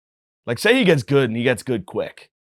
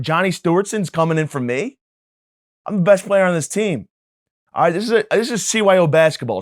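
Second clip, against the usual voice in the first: higher and louder, indignant protest; a star player furious at being benched; whiny outraged kid; 4 semitones higher, 3 dB louder than usual. Retold or imitated. Competitive kid ranting at coach dad.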